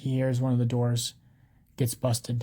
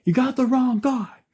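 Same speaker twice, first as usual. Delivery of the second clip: high, loud shout at the cops; yelling protest; 12 semitones higher, 6 dB louder than usual. A narrator's reading. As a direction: yell it out in outrage from a cell. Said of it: "criminals are yelling at the cops".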